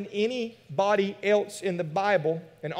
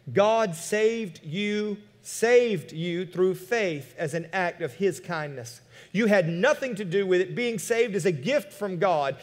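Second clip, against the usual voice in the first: slow, deliberate verse reading; scripture reading. Acted. Pastor urging the church to hear this verse, slow and deliberate. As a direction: let the verse sink in word by word.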